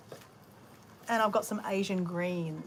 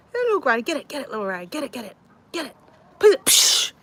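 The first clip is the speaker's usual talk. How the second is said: coaxing chickens; 5 semitones higher, 10 dB louder than usual. Real, not acted. Urging the chickens to eat.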